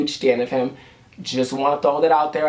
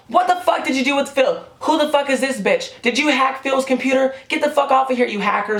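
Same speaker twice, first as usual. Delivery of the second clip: mock angry fans; 9 semitones higher than usual. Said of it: "all of them were like".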